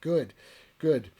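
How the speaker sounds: a loud, eager good, good. Retold or imitated. Relieved man under attack.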